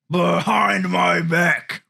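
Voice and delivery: drawn-out slow shout. Acted. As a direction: bellow it slowly like an ork. Ork boasting in role-play.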